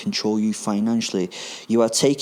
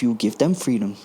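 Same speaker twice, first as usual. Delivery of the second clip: put-on camp German accent. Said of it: "thick but very camp German accent".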